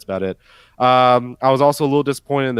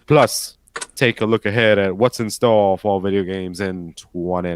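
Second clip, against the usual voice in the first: a hint of a sultry announcer; sexy Willie voice; 3 semitones lower than usual. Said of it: "do it in my, uh, sexy Willie voice".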